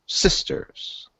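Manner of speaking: sisters said with weight, quietly; stressed sisters. Acted. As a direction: lean on the word sisters, hushed. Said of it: "The speaker stresses the word sisters".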